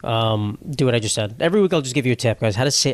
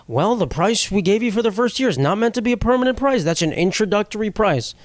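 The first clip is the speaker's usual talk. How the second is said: higher-pitched, officious mock rep voice; hardball phone rep; 6 semitones higher than usual. Rep refusing a caller a discount, playing hardball. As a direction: imitate an unbudging customer service rep. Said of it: "One of them was playing hardball".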